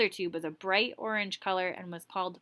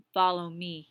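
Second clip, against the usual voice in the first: growl; 3 dB louder than usual. Acted. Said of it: "he growled".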